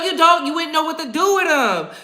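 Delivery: ordinary delivery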